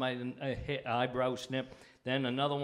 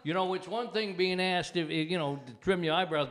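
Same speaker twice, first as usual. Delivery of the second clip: ordinary talk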